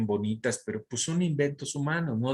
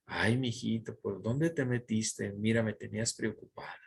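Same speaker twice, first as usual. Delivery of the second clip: tender worried mother; 3 semitones lower, 5 dB quieter than usual. Retold or imitated. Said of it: "en esa actitud de".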